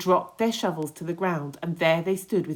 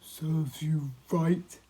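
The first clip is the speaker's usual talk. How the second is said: dry earthworm; much slower than usual. Acted. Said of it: "said the earthworm".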